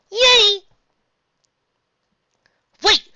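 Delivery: high happy yay; excited cheer. Real, not acted. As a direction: cheer with delight. Cheer after ruling.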